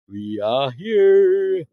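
slow, drawn-out call to the ghosts; spooky call. Acted. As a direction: stretch each word out to summon them. Calling out to the spirits.

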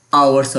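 আওয়ার্স starting on the vowel; teacher's model of আওয়ার্স, H dropped; silent H. Shown as a demonstration. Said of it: "এইচ এর উচ্চারণ হবে না".

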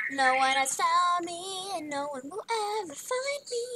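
high, playful sing-song boast; teasing hide-and-seek chant; sing-song gloating. Pretend. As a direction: lilt it upward, drawing out the words. Gloating while hidden in game.

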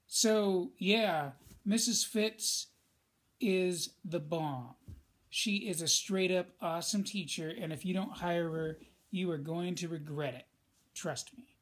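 overly casual, slangy praise; enthusiastic. Shown as a demonstration. Teacher demoing a too-casual recommendation, enthusiastic. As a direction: gush like you're trying to sound cool. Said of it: "That is enthusiastic".

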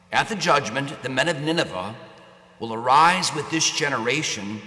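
Gospel reading. Acted. Priest proclaims the Gospel.

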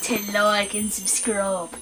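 low, soft Australian drawl; Australian accent. Acted. Partner joking over the sign-off, Australian accent. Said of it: "In your Australian voice".

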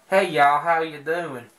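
put-on casual folksy southern accent; mock down-home southern twang. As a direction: greet them in a light everyday southern accent. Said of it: "I'm not talking about".

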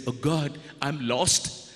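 a hint of a desperate Cain; Cain's fear. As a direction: plead in fear for your life. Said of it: "And Cain said".

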